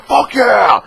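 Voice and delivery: high, loud whoop from the crowd; cheering yell. Retold or imitated. Fan yelling from the crowd at the Q and A, loud cheer. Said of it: "the guy that yelled in the background".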